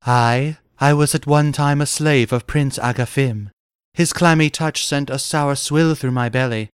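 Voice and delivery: lightly voiced wench telling her tale; a touch of storybook damsel; whimsical wench. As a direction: recount it as the freed slave girl. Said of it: "the wench stated whimsicorically".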